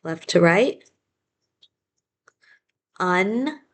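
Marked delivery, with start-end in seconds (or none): 3.0-3.6 "Un" cut off short where the mouth stops; just "Un", clipped at the syllable break; first syllable only. Shown as a demonstration. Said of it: "that's where my mouth stops".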